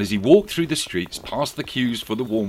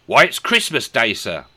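put-on boy voice; 3 semitones higher, 7 dB louder than usual. A narrator's reading. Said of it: "replied the boy".

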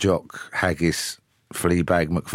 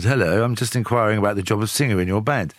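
put-on posh English accent. Ringing his old bandmate, disguised in a posh English accent. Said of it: "I put on a posh accent".

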